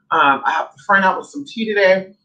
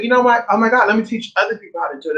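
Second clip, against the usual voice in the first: excited; 4 semitones higher, faster than usual. Retold or imitated. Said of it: "And I said".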